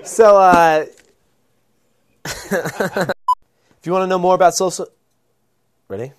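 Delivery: tipsy, flubbing the words. Real, not acted. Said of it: "I'm getting drunk".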